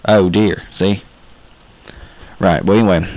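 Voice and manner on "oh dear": "Oh" in "Oh dear" gliding from A to O; Southern twang O. Shown as a demonstration. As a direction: exaggerate the Southern vowel in "Oh". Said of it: "that's how we pronounce O down here".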